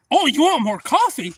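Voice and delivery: high teasing yell; mock scream. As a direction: yell it mockingly. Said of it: "he started screaming like".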